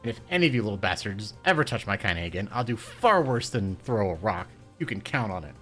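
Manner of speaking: put-on loud, furious old woman; thick with rage. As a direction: bark threats at the bullies. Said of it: "in a voice thick with rage".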